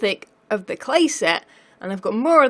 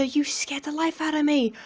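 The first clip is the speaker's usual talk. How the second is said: startled; 5 semitones higher, 4 dB quieter than usual. Real, not acted. Startled by a pigman.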